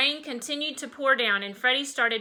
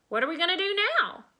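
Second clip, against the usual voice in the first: excited; 8 semitones higher, much faster than usual. Acted. Excited child.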